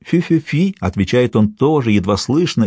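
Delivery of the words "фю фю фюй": high spoken whistle signal; imitated whistle. A narrator's reading. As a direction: answer with a mimicked whistle. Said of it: "чуть слышный свист". (имитация ответного свиста)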